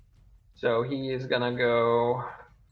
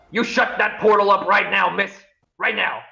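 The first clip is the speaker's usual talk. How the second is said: loud, higher panicked order; panicked shout; 7 semitones higher, 4 dB louder than usual. Acted. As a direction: yell it in a panic. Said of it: "shouts to Mal".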